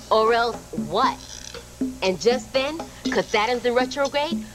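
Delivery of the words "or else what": slow, daring comeback; defiant challenge. Acted. Worker dares the boss to act, defiant. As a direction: throw the threat back slowly as a question.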